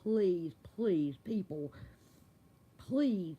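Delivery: speaking without dentures; no teeth. Real, not acted. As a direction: toothless speech. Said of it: "I look awful without teeth".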